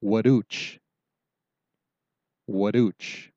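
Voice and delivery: teacher modelling "waduch" clearly; careful Ho-Chunk pronunciation. Shown as a demonstration. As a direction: say "waduch" slowly and clearly, wuh-DOOCH. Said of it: "So that word is".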